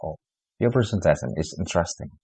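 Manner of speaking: "interesting" said flat and unexpressive. Shown as a demonstration. Lecturer giving a flat, bored response to a presentation. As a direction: praise with no feeling behind it. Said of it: "flat begitu ya".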